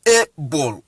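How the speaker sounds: ABLE split as "AY... bol"; letter-name "ay", then a separate "bol" in ABLE; English letter A in ABLE. Shown as a demonstration. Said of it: "properly using A in the English".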